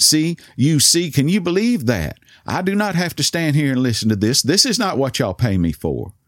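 high-pitched, outraged complaint; indignant cashier. Retold or imitated. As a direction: appeal to the boss in mock outrage. Offended cashier complaining to manager.

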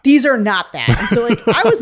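laughing while repeating the cohost's line; amused echo with a laugh. Real, not acted. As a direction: say it through real laughter.

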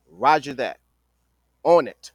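loud, crisp soldier reply; military response. Retold or imitated. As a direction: answer like a soldier taking orders. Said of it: "make it sound like the military for y'all".

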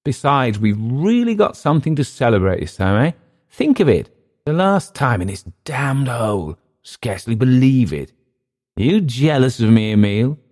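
put-on high, loud drunken glee; giddy drunk, boasting to Emile; gloating tipsy Clift. A narrator's reading. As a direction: crow over leaving this hole.

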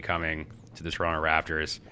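blocked-nose voice; congested, nasal delivery. Real, not acted. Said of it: "my nasally voice this week".

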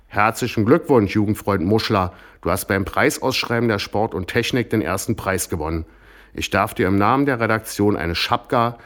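a saluting officer reading out the prize; lightly voiced stiff official; officer's formal announcement. Officer delivers prize speech.

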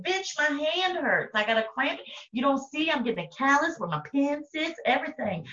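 high-pitched comic griping; mock complaint. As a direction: complain with hammed-up indignation. Acted complaint about writing letters.

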